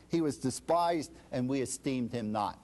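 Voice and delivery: normal talking voice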